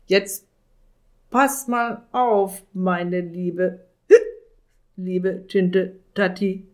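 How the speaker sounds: put-on slurred, slow drunk wizard; drunk slurring. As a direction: slur it like a drunk. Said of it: "lallte der Zauberer".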